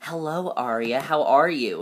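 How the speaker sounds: put-on prissy voice. Recapping a show scene, imitating Mona's prissy voice. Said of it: "That's literally how she says it".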